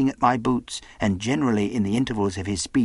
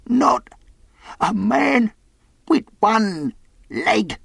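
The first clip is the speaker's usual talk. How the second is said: high, halting, fearful question; gasped; 13 semitones higher, 4 dB louder, much slower than usual. A narrator's reading. Castaway dreads the one-legged man, gasping. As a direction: break it up with gasps, high-pitched. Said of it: "he gasped".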